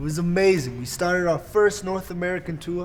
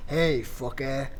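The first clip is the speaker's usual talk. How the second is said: put-on slow, lower French accent; 3 semitones lower, slower than usual. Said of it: "in his ridiculous French accent".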